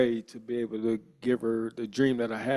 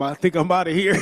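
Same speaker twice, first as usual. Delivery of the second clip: laughing through it, pitched up; 7 semitones higher than usual. Real, not acted. Player telling teammates he's cut, laughing. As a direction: chuckle out the words.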